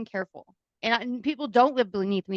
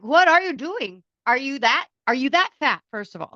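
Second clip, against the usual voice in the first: exasperated yelling; 5 semitones higher, 6 dB louder than usual. Retold or imitated. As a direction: yell it in disbelief. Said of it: "I'm like".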